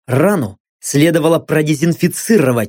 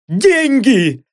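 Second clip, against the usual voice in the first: quick higher yelp; hurried shout; 6 semitones higher than usual. Acted. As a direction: blurt it out in panic. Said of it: "торопливо выкрикнул блондин".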